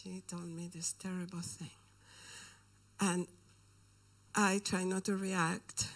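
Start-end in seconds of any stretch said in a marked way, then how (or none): 0.0-1.7 hushed whisper. Real, not acted. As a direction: drop to a breathy whisper on terrible. Confiding a shocking secret.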